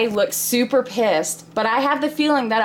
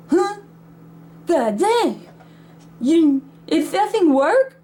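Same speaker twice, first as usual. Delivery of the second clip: higher, mildly incredulous retort; lightly acted disbelief; incredulous dad; 6 semitones higher, slower than usual. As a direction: balk at the price, pitch rising. Dad reacts to the high price.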